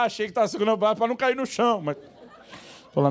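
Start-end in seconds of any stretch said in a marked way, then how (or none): 0.0-1.8 sarcastic retort. Retold or imitated. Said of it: "E eu querendo falar".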